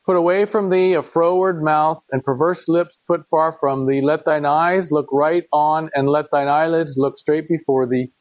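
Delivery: measured, solemn reading of scripture; earnest King James reading voice. Acted. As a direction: read it like a father pleading with his son. Reads verses twenty to twenty-seven.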